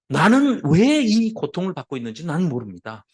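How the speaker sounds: acted loud outcry to God; crying out. Preacher voices Job's anguished plea to God, crying out. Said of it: "외치는 거는".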